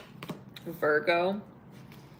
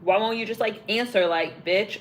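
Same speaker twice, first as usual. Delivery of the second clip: louder, demanding, insulting at the end; angry man; 4 dB louder than usual. Retold or imitated. Jealous man yelling at the partner in his car, mock angry. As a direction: vent at her while slamming the dashboard. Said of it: "slamming the dashboard in his car".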